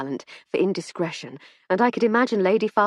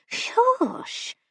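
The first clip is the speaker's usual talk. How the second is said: high whispered shush. A narrator's reading. Wife hushing again.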